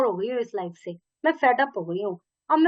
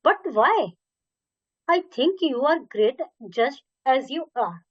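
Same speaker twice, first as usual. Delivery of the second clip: puzzled; much slower than usual. Acted. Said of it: "puzzled, confused".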